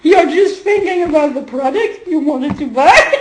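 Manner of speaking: high, loud, laughing through the words; real laughter. Real, not acted. Teacher joking about the shopper and the product, laughing. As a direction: talk through a fit of laughter. Laughing at own supermarket joke.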